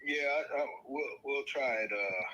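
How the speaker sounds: thin tinny sound like a tin can; tinny phone voice. Real, not acted. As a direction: voice coming through a phone speaker. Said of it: "it's tinny".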